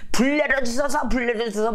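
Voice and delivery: high-pitched mock chant; imitated pleading prayer. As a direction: mimic worshippers begging as they circle. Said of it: "막 이러고 다니니까".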